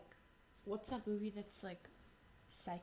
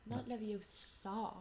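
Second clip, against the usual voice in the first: slow, soft "Leviosa", dragging the last syllable; Hermione; 6 dB quieter, much slower than usual. Acted. Finishing the correction for dad, Hermione impression. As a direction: mimic the wrong version, drawn out. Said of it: "I'm doing it".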